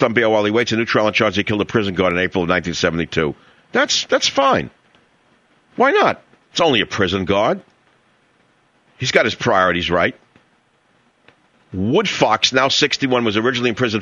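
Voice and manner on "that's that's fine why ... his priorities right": sarcastic. Real, not acted. Sarcasm about bail ruling.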